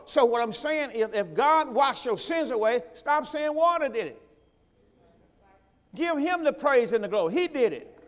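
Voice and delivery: rising, ringing pulpit voice; full-force preaching. Acted. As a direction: drive it home to the congregation.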